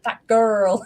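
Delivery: put-on toddler quote breaking into laughter; laughing through it. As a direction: say it while cracking up. Imitating son while laughing.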